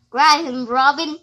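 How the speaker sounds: loud "grab him", punched out; loud urging. Acted. Kid shouting at a partner to grab the enemy, loud.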